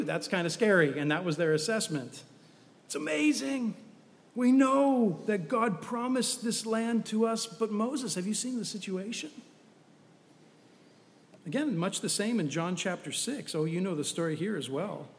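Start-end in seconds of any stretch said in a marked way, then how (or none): 2.9-9.3 doubtful protest. Acted. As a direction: concede it brightly, then question Moses. Spies protest to Moses.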